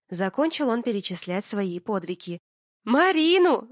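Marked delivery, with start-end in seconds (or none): 2.8-3.7 high, loud outcry; shocked shout. Acted. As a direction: cry out the name in disbelief. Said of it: "выкрикнула я".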